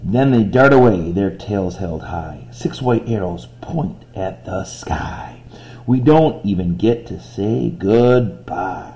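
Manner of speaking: rhythmic verse read with rhymes leaning out; poem reading. Shown as a demonstration. Teacher reading the stanza to find rhymes, rhythmic.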